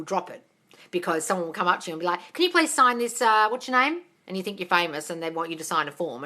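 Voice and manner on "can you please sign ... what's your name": stranger asking. Acted. Acting stranger asking for a signature.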